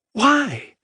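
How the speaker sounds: high incredulous question; shocked. Acted. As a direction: ask it in disbelief. Adair asks in shock.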